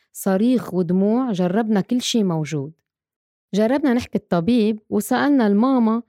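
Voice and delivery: reciting rhyming verses to a mother; a rhymed lament for mothers of colicky babies; rhymed poem recital. Acted. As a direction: read it like a heartfelt poem.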